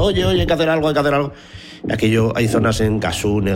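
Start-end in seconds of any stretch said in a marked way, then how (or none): 0.0-1.3 high-pitched imitation of pleading locals; raised, insistent retold plea; accosting residents. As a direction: mimic townspeople stopping you in the street. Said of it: "nos asalta diciendo".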